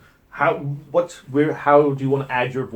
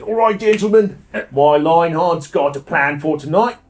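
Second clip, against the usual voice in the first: Eddie's put-on accent; 3 semitones higher, 3 dB louder than usual. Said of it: "don't know where that accent went".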